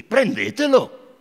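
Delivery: high, slow commanding order; a general ordering his men to seize the boy; stern order. Acted. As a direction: give the order coldly, slowly.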